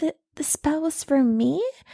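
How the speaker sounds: acted delighted, flattered, happy, pleased tone. Retelling how Cordelia reacted in the episode: imitating Cordelia sounding happy. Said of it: "all happy".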